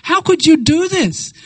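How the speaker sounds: high-pitched indignant reproach; acted anger. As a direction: act out an angry accusation. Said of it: "she's so angry with Krishna".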